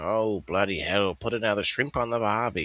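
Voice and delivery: lightly voiced mixed Australian accent; a hint of a made-up Australian accent; Australia-ish accent. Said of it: "this, uh, Australia-ish".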